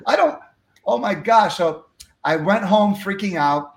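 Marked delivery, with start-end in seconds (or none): 0.1-1.6 high-pitched, halting mock panic; acted panic. New speaker retells hearing of first gig, acted panic. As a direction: stammer in rising alarm, played for laughs.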